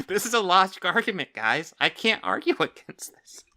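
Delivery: can barely get it out for laughing; laughing sarcasm. Real, not acted. Streamer laughing at the rant while telling chat it's a logic argument.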